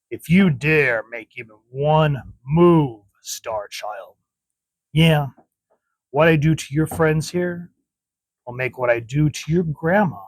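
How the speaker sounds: lightly voiced menacing villain, slow and drawn out; measured, mildly menacing read; villain's threat. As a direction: draw out the threat a little, as if reading a comic villain. Reading a villain's threat aloud.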